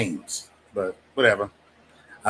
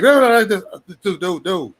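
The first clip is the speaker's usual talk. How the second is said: imitated worked-up friend; 6 semitones higher than usual. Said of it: "come back on it like".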